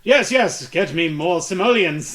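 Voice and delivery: lightly voiced greedy tycoon; a hint of a pompous baron; rich oil baron. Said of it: "makes me sound like a rich white oil baron".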